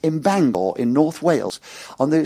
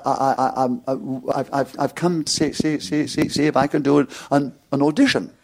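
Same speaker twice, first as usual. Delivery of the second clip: retold nervous stammer, repeating the sounds; stutter. Nervous young man stammering to the manager. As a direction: stumble and repeat the first sounds. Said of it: "my stutter became worse".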